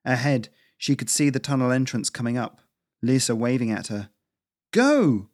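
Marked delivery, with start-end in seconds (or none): 4.7-5.3 breathless, loud shout; panting shout. Acted. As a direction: gasp it out while running. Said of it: "Cora panted".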